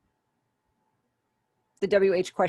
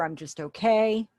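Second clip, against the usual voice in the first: so-so okay; 3 semitones higher, slower than usual. Shown as a demonstration. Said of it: "responding with an".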